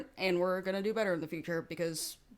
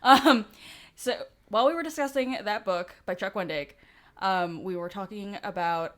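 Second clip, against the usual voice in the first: lisping from aligner trays; slight lisp, mouth full of trays; 4 dB louder than usual. Real, not acted. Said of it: "so I'm super lispy".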